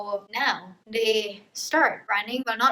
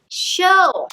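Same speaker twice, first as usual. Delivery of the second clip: higher, louder brush-off; mock chill; 9 semitones higher, 10 dB louder than usual. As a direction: toss off a loud teasing chill. Mao voiced in book retelling.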